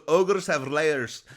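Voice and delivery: slow, loud ogre bellow; Shrek impression. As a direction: boom it out slowly like a big ogre. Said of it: "But I'm trying to sound like Shrek".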